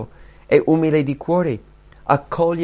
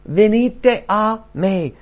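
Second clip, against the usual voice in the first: high, drawn-out call; slow, raised, pleading summons; 7 semitones higher, 4 dB louder, much slower than usual. Acted. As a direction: call them in, stretching every word.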